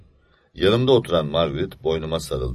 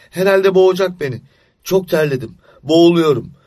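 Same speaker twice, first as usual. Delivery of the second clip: higher and louder, rising panic; panicked child; 11 semitones higher, 9 dB louder than usual. Acted. Boy in bed who thinks witches choke him, panicking. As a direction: gasp it out as if the hands are closing.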